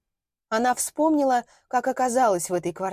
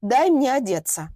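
louder, holding back a tremble; firm demand; 3 semitones higher, 4 dB louder than usual. Acted. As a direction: hold it together and demand. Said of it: "стараясь, чтобы её голос не дрожал".

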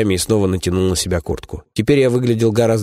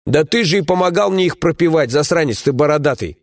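flaring up; 8 semitones higher than usual. Acted. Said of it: "взвился Каран".

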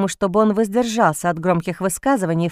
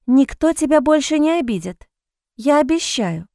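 tender whisper; 4 semitones higher than usual. Acted. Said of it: "прошептала Джейн".

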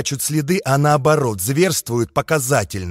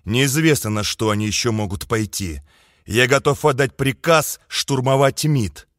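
stern commander voice; 4 semitones lower than usual. Acted. Suvorov's low, stern voice.

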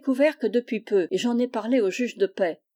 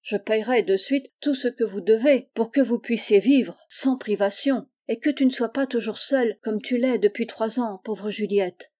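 ordinary delivery

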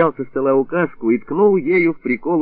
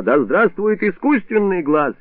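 slow, raised rallying cry; drunken proclamation; 8 semitones higher, slower than usual. A narrator's reading. Drunk doctor proclaiming his slogan to patients, slow and high.

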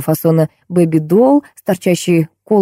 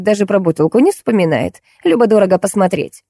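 a hint of a shrewd, pitched-up wife; lightly voiced scheming wife; 3 semitones higher than usual. Wife explaining to Lampa why she won't divorce, lightly voiced and shrewd.

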